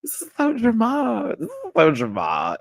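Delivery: high squealing laugh through the words; laughing cry. Real, not acted. Recapping a reality show, laughing helplessly. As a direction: crack up while saying it. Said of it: "Oh, I was screaming".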